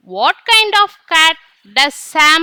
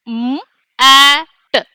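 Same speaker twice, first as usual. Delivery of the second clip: M, A, T each said apart, with pauses; sounding out letters; 3 dB louder than usual. Shown as a demonstration. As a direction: say M, A, T one letter at a time. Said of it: "Let's sound it out".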